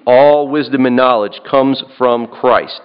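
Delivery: "All" hit firmly at the start; stress on "All". Shown as a demonstration. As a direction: open with a strong, emphatic "All". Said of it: "I would emphasize the word all".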